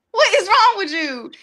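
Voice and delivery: lightly exasperated plea to her car; mock whiny scolding. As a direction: whine at the car like it's a kid. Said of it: "talking to her".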